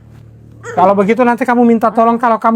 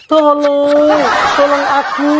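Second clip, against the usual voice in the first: mild demo help call; 3 semitones higher, slower than usual. Shown as a demonstration. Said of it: "kamu bilang begini".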